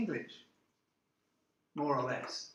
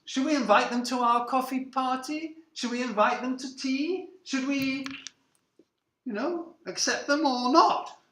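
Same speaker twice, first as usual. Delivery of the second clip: higher-pitched acted questions; deliberating society hostess; 5 semitones higher than usual. Established families debate inviting newcomers, fussily deliberating. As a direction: put on a fussy hostess weighing up guests.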